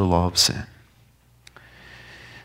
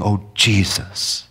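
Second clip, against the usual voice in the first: slow tender prayer. Acted.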